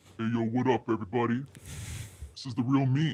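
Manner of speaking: eerie put-on voice, very deep and low. Asked by the host to do the voice the crowd loves, creepy put-on voice. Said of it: "That's pretty creepy".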